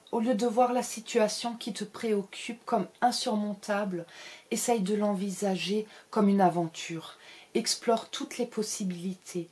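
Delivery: psychic reading voice. Pretend. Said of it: "Je redeviens rose".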